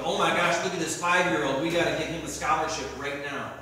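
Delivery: hammed-up college scout raving over a five-year-old; mock excited scout. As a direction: gush like a scout who found a prodigy. Imagined scouts gushing in the stands.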